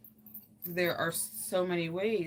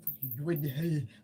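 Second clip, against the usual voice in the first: baffled noise. Acted. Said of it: "my mind is like".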